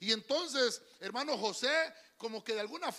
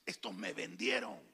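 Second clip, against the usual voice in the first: much lower, soft, almost whispered; José quietly recognizing his brothers; hushed José; 7 dB quieter than usual. Acted. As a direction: say it low and hushed like a secret. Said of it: "Dijo José".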